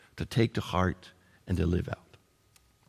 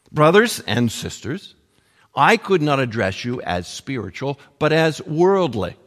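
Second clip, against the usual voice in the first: louder, firm quoted reproof; stern rebuke; 4 dB louder than usual. Retold or imitated. Paul addressing the Corinthians as worldly, in stern rebuke. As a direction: read it out as a firm admonishment. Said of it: "he gives them a stern rebuke".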